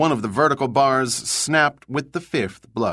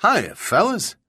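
cheeky; 2 semitones higher than usual. Acted. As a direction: play innocent, cheerfully cheeky. Cheeky cover story to guards.

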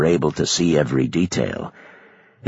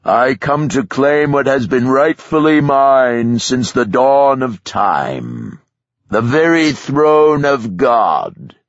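booming, higher, slow defiant shout; 5 semitones higher, 4 dB louder, slower than usual. Acted. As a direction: proclaim it like a tyrant claiming a throne. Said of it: "he shouted".

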